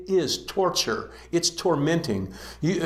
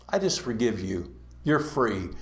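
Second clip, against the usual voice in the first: soft, lower, kindly pardon; gentle king; 4 semitones lower, 4 dB quieter than usual. Acted. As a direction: let him off quietly, like a generous king. King forgives the debt.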